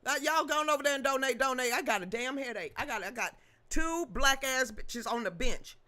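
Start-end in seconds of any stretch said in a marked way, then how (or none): 2.8-5.8 laughing through the line; chuckling as she reads the comment. Real, not acted. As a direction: giggle while reading it out. Laughing while reading comment.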